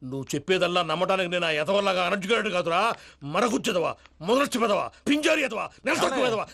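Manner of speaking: scolding that climbs through the string of insults; abusive scolding. Acted. Old man cursing out the man before him, abusive scolding. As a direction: hurl each insult separately, building up. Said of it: "ఆయన అలా బండబూతులు తిడతా ఉంటే".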